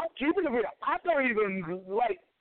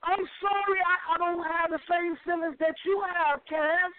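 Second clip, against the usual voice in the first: higher-pitched, insistent pushback; real agitated protest; 4 semitones higher than usual. Real, not acted. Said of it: "you ain't gotta yell".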